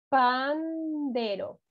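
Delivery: very slow, stretched syllables; slow dictation. Shown as a demonstration. Teacher helping kids who struggle, very slow. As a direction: draw it out for the slow writers. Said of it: "Los voy ayudando".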